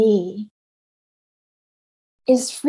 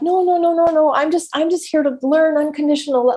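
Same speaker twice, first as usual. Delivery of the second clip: higher, airy self-mocking no no no; mock breezy denial; 5 semitones higher than usual. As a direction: brush it off like nothing's wrong. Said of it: "I made it like".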